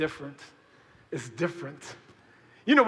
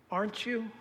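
hushed question; 9 dB quieter than usual. Pretend. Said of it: "you answered like this".

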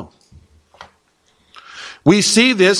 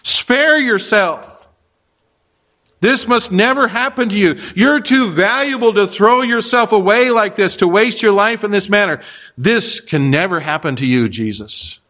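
a mild plea to spare yourself; earnest, lightly voiced Peter pleading; 3 semitones higher than usual. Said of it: "Peter said to him".

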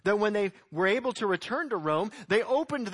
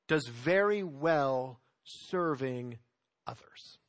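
hushed, breathy whisper; 5 semitones lower, slower than usual. Real, not acted. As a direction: drop to a confiding whisper to the church. Pastor drops to a confiding aside.

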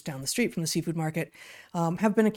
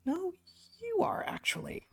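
whispered aside; 14 semitones higher, 6 dB quieter than usual. Real, not acted. Whispered retort to accusers.

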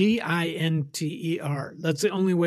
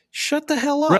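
much higher disbelieving scoff; mock scoff; 10 semitones higher than usual. Imagined listener scoffs at the Hampshire man, much higher. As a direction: scoff at the claim in a high voice.

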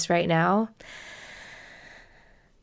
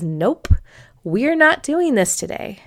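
stubborn refusal; 5 semitones higher than usual. Retold or imitated. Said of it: "stubborn part that comes forward and says".

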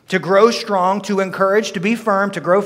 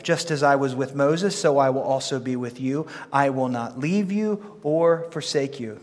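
measured, solemn Bible reading; scripture reading. Acted. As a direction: read the Lord's words with weight. Reads scripture aloud.

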